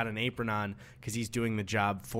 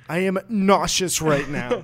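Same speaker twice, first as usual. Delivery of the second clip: mock nauseous whine; 5 semitones higher, 6 dB louder than usual. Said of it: "mocking the guy".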